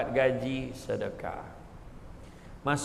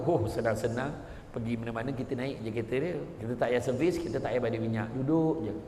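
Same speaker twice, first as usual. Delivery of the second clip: freeloader's glee; 5 semitones lower, 4 dB quieter than usual. Acted. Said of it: "Dengar dia beli kereta baru".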